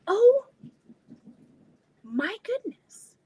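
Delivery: sudden high loud oh; jolted by a crash; real startled cry; startled gasp. Real, not acted.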